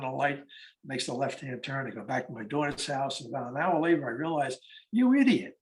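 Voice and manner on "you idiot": self-scolding. Retold or imitated. Scolding himself.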